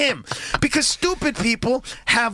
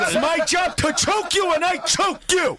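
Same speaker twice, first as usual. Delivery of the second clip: raised, higher triumphant fighter; 5 semitones higher than usual. Retold or imitated. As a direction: boast it, pleased with yourself. Voicing fighter who keeps choking.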